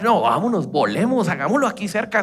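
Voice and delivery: high, loud, rushing to agree; eager husband. Retold or imitated.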